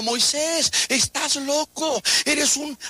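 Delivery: taunting, drawn-out heckle; jeering crowd shout. Acted. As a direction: jeer slowly like a heckling mob. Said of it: "andaban gritando".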